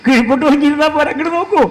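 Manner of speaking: a spouse's high, insistent call to look. Acted. Acted spouse demanding to be looked at.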